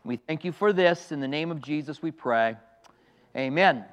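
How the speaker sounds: measured prayer in short phrases; public prayer. Real, not acted. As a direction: lead the congregation in earnest prayer. Leads an opening prayer.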